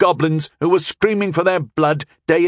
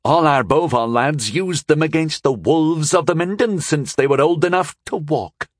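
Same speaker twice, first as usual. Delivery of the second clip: higher-pitched, proudly emphatic lady; proud dig, pitched up and unhesitating; proud retort; 6 semitones higher than usual. A narrator's reading. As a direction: boast of your people with supreme confidence. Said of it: "but she said it proudly".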